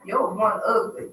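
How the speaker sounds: lightly voiced old grandma. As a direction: say it like a grandma teasing. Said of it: "that's in my grandma voice".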